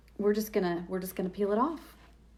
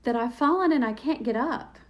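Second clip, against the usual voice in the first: high, loud mock panic; imagine yourself fallen and fretting; panicked inner voice; 7 semitones higher, 5 dB louder than usual. Crafter pictures falling while running, mock panic. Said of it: "And I'm like".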